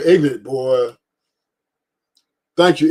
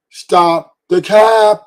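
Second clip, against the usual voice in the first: call out the cap; 3 semitones higher, 6 dB louder, much slower than usual. Real, not acted. Calls out panel men.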